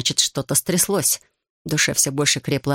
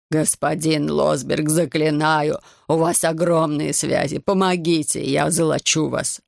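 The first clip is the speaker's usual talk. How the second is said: slow, imploring plea with a rising name; a desperate father implores the powerful host; pleading; slower than usual. Acted. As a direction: beg him, drawing out the name. Desperate father begs for help.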